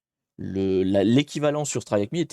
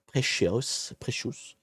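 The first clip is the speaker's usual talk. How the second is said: trying out an English pronunciation of "Precious", softer; self-mocked English accent; 6 dB quieter, much slower than usual. Real, not acted. Streamer names the machine for viewers, self-mocked English accent. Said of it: "avec mon superbe accent".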